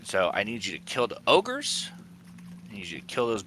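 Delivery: nervous goblin plotting against his boss. Acted. DM voicing goblin Snigbats Junior.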